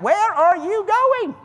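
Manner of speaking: high, slow frantic demon voice; panicked demon. Acted. Preacher voicing the fleeing demons, high frantic cry. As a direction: squeal it like a scared demon.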